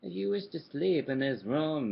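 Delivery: loud, solemn ghost; booming ghost voice. A narrator's reading. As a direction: announce it like a haunting lord. Ghost character speaking.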